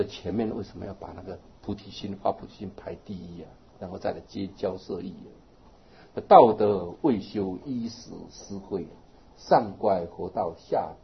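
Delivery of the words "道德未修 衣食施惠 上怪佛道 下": scripture recitation. Acted.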